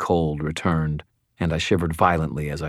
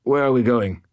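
sleepy; 6 semitones higher, 4 dB louder than usual. A narrator's reading. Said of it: "Bob mumbled in a sleep-slurred voice".

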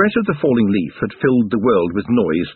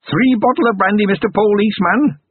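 haggling goblin crone; 11 semitones higher than usual. A narrator's reading. Goblin granny naming her price to Carrot, sly high crone. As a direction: bargain like a sly old goblin.

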